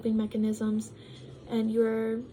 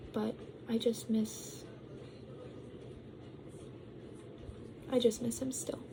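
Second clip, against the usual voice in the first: sad; 9 dB quieter than usual. Real, not acted. Missing her ex, voice drops.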